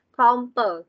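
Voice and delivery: Compare said as "com-puh", with an ơ sound; schwa vowel. Shown as a demonstration. Teacher isolating syllables for students, schwa at the end of Compare. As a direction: model Compare ending in a neutral "uh". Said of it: "âm ơ".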